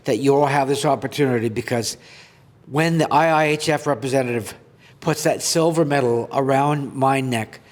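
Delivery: earnest reading of his own article; reading aloud. Acted. Goaltender reading his article to viewers, earnest. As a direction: read it out like a heartfelt speech.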